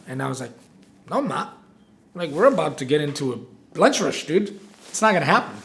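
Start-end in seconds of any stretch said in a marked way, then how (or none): 1.1-5.6 irritated refusal. Retold or imitated. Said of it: "I was pissed".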